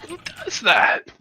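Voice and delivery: high, drawn-out disbelief. Acted. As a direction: shake your head and ask again slowly. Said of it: "hangar bay go".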